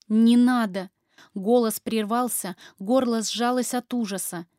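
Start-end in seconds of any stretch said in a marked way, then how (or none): 0.1-0.9 loud panicked protest; frightened cry. Acted. Terrified wife crying out to her husband. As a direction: cry out in fear.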